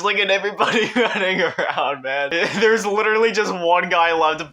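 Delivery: delighted chuckle in the voice; laughing. Real, not acted. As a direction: giggle while pointing it out. Watching players, laughing.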